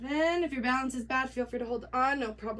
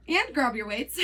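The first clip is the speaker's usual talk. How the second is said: laughing. Real, not acted. Laughing at the harder option.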